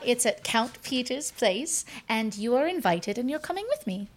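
fast, rising, delighted invitation; excited gushing. Acted. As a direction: rush through it, thrilled and bossy. Player as Astrid, gushing invitation.

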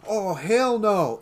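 loud, high, drawn-out mock yell; panicked retold yell. Moviegoer spotting the red hoodie, mock-panicked yell. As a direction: imitate a spooked moviegoer crying out, stretching it.

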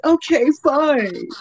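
curt. Retold or imitated. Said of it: "she said".

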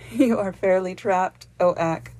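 the queen laughing at the trapped woodsman; laughing exclamation. A narrator's reading. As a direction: tease him gleefully. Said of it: "she exclaimed, laughing".

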